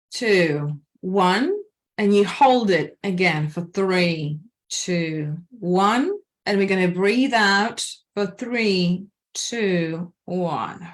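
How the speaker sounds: slow, even breathing-coach count; calm instructor counting breaths in and out; guided breathing count. Shown as a demonstration. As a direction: pace them through each breath, slowly. Leads a counted breathing exercise.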